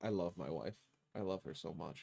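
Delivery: sarcastic tone. Saying they love their wife who touched the cameras: sarcastic tone. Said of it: "Less sarcasm".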